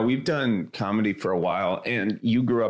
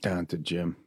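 put-on Philly accent; 3 dB quieter than usual. Copies the Philly accent demo.

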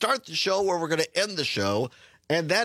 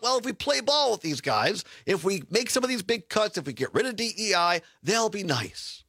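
higher-pitched mock optimism, drawing out the last words; mock naive hope; 5 semitones higher than usual. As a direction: imitate wishful appeasers, pitched up. Mimics university leaders' naive hope.

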